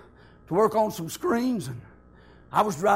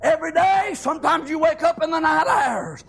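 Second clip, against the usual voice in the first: higher, shouting, voice cracking near the peak; preaching at full force; 3 semitones higher than usual. Acted. Preacher telling the church how God carried him, in full-force preaching. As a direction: climb to a tearful shout of praise.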